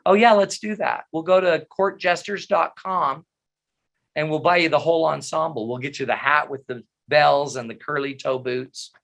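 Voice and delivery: lightly mocking, dismissive sarcasm; flippant. Wife brushing off husband's knee-tie claim, flippant sarcasm. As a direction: toss it off as a sarcastic joke. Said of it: "she said kind of flippantly".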